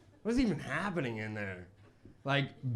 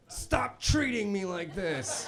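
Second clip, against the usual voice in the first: acted confidence; 5 semitones higher, slower than usual. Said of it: "I've never said confident things".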